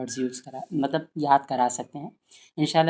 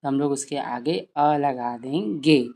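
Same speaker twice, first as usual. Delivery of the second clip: slow teaching voice; slower than usual. Shown as a demonstration. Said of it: "बच्चों से कहिए".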